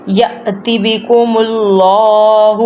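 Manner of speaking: "یأتی" cut short at the hamza, "اللہ" drawn out; slow recitation with a catch after "ya" in "یأتی"; jolt on hamza. Shown as a demonstration. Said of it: "اب یہاں پہ ہم نے جھٹکا کیوں لگایا". ("یأتی" میں ہمزہ پر جھٹکا، آہستہ تلاوت)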